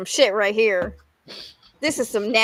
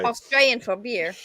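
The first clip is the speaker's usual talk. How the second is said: a lightly faked Australian twang on the slogan; hammed-up Australian ad voice, barely there; bad Australian accent. Shown as a demonstration. Jokingly quoting the Foster's beer slogan, weak Australian accent. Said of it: "terrible Australian accent".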